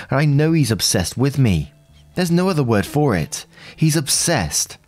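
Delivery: evenly paced read-aloud of a personal post; story narration. A narrator's reading. Narrator reading out someone's post about a troubled relationship, story narration. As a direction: read it out as a first-person account.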